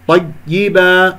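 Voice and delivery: slow طيبة with the doubled ي choked off; muffled ya. Shown as a demonstration. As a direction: swallow the first ي of طيبة. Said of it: "ولا أكتم صوت الياء الساكنة". (كتم الياء في طيبة خطأً)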